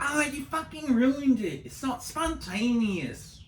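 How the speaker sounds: high, loud, whiny mock tantrum; mocking the ex's high, loud complaint; mocking the ex-girlfriend. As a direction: shriek it like the ex ruining the moment. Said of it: "She'd be like".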